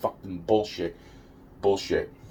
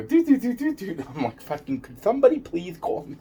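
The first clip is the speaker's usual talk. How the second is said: much higher, urgent calling; retold pleading; 9 semitones higher than usual. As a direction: plead for someone to call.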